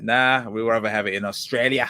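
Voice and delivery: a lightly done, bad Australian accent; half-hearted Australian accent, barely put on. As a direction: toss off a weak imitation of an Australian accent. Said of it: "That is a really bad a-, Australian accent".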